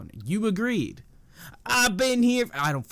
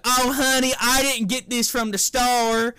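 put-on Southern old lady voice, pitched up; drawling Southern granny impression, higher; Southern lady accent; 5 semitones higher than usual. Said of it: "Your old Southern lady accent is god tier".

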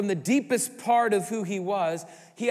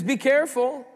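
stern; 8 semitones higher, 7 dB louder than usual. Acted. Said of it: "Jesus says".

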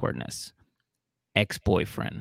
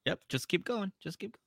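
egging on; 6 semitones higher, 12 dB quieter than usual. Real, not acted. Egging him on under breath.

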